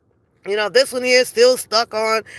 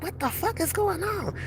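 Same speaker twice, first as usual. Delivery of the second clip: higher, much softer bewildered mutter; a hushed, disbelieving aside; baffled aside; 8 semitones higher, 11 dB quieter than usual. Retold or imitated. Narrator reacting to people's behaviour, hushed disbelief. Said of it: "I'm like".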